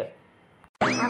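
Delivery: long, low, stretched ahoo; drawn-out call. Acted. Answering the angry farmer from the water, long drawn-out ahoo. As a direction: drag it out innocently.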